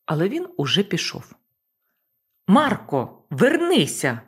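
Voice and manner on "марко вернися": loud call, falling firmly. Acted. Boss calling Marko back to the cabin, firm shout. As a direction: call him back with authority. Calling after departed deckhand.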